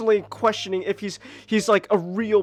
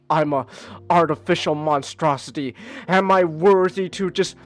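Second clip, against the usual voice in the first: lower, slow, self-pitying whine, hammed-up; mock mopey Mewtwo; 3 semitones lower, 3 dB louder, slower than usual. Mocking Mewtwo's moping to his friends, slow, low, hammed-up whine. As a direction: mope like a sulky clone who hates himself. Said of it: "that's his entire character throughout this whole movie".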